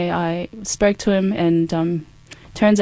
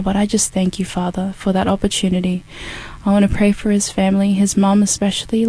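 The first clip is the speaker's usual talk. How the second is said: earnest, steady prayer voice, slightly raised; spoken prayer; 2 semitones higher, 3 dB louder than usual. Real, not acted. Praying for a grieving man and his mum, earnest prayer. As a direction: pray aloud to God with conviction.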